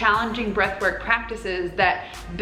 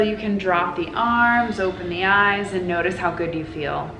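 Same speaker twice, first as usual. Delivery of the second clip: guided meditation. Acted. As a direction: guide them gently into the hug. Leads a guided hug meditation.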